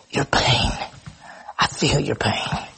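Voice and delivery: low, slow, husky sympathy; upset compassion. Acted. Preacher voices Jesus comforting mourners, low upset compassion. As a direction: let the voice drop and ache gently with them. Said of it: "He's upset".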